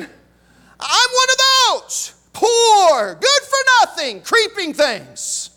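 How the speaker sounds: high, slow retold exclamation; acted exultant outburst. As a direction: draw out each word high, then drop on the last. Dying man's cry acted in sermon.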